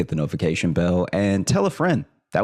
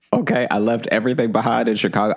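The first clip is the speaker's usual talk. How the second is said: fast pleading; 5 semitones higher, much faster than usual. Retold or imitated. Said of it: "giving this woman my life story".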